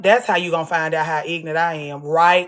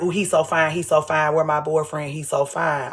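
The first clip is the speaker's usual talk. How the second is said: mock swooning woman; 4 semitones lower, 4 dB quieter than usual. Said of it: "I don't like when people be like".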